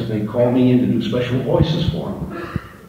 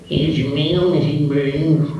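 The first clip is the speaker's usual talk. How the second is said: higher, cheery postman voice; happy postman; 7 semitones higher, slower than usual. Acted. Postman greeting Mrs. Burns, higher and cheery. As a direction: sing it out like a cheerful mailman. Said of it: "I was the happy postman on that".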